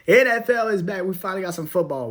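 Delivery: excited. Real, not acted. Podcaster hyped to his listeners that football returns, excited. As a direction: shout it like a fan who missed the game. Repeats NFL news excitedly.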